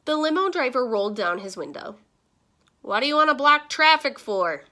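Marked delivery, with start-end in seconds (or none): 2.8-4.6 loud, higher-pitched driver's holler; calling out. A narrator's reading. Limo driver complains about blocked traffic, calling out. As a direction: holler it out of a car window. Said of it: "he called out".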